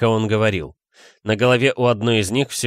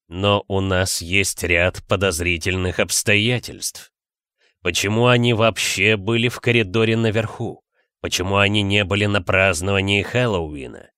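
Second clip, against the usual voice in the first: measured, lowered questioning; вкрадчивый следователь; 3 semitones lower than usual. Acted. Снейп вкрадчиво допрашивает учеников. (неторопливо, низко, с подозрением)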